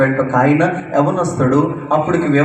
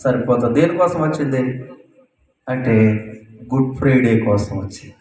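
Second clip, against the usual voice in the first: rising, ringing sermon calls to the crowd; preaching; 2 semitones higher than usual. Acted. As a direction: preach it out to the congregation. (ఉత్సాహంగా బోధించడం)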